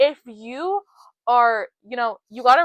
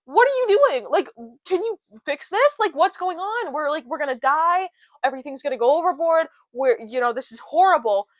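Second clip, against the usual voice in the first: higher, louder mock panic, half-acted; retold panic; 4 semitones higher, 4 dB louder than usual. Disciples waking the sleeping Jesus in the storm, imitated panicky pleading. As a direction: play the frightened disciples shaking Jesus awake. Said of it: "The disciples are freaking out".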